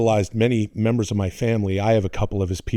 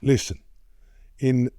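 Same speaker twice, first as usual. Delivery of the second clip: lightly voiced Italian father, slow and halting; measured accented dad voice; old man impression; slower than usual. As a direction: imitate Dad dispensing wisdom with long pauses. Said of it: "he go".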